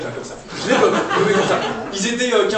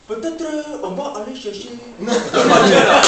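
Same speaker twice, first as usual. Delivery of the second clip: mock African accent, lightly done; 3 semitones higher, 4 dB louder than usual. Comedian voicing a dream footballer, mock African accent. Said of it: "je fais l'accent".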